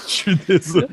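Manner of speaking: sheepish put-on German accent. Impostor apologizing to the guard, German accent. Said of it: "il parle en français avec un accent allemand".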